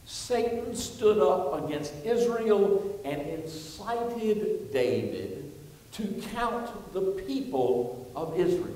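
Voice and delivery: loud, measured reading from the pulpit; scripture reading. A narrator's reading. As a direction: read scripture out firmly, stretching key phrases. Reads scripture aloud.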